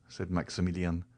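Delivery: ordinary delivery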